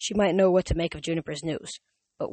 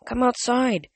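coaxing; 6 semitones higher, 4 dB louder, slower than usual. A narrator's reading.

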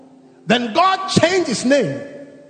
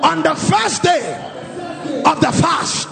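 fervent declaration prayer. Acted. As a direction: declare it over them with full force. Leads congregation in declaration prayer.

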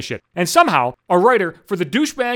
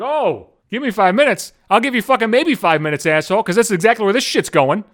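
mocking echo; 3 semitones higher than usual. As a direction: scoff and drag out "minutes" mockingly.

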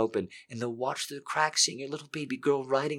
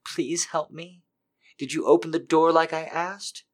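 higher, desperate pleading; urgent begging; 5 semitones higher than usual. Acted. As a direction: beg urgently, voice climbing higher. Character's begging grows urgent.

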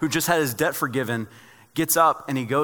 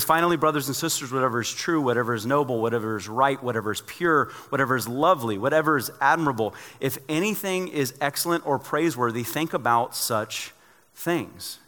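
scripture reading. Real, not acted. Reading Philippians aloud.

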